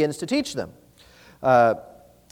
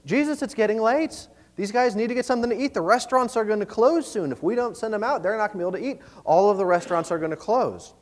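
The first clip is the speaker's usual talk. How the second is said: lightly acted, higher-pitched practical concern; higher, considerate appeal; reasonable concern; 5 semitones higher than usual. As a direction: reason earnestly with your leader on others' behalf. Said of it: "being very thoughtful, very reasonable".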